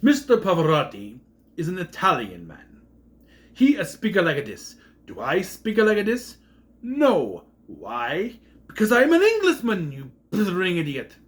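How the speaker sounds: a hint of a pompous English professor building to an outburst; lecture, then explode on Englishman; imitating the Professor. Quoting the Professor's rant at a student, rising to a loud exclamation. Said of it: "the best line the professor ever had".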